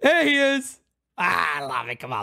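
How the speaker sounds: ordinary talk, nothing marked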